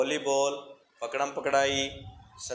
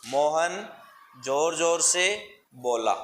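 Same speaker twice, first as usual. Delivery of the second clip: मोहन जोर जोर से बोला said slowly word by word; slow model reading; slower than usual. Shown as a demonstration. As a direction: read it out slowly for the class. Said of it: "मैं पहला मिला के बताता हूँ". (धीरे-धीरे पढ़कर दिखाना)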